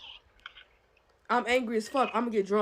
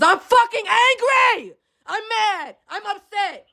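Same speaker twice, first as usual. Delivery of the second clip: angry outburst; 4 semitones higher, 3 dB louder, slower than usual. Acted. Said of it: "act like an angry black fucking woman".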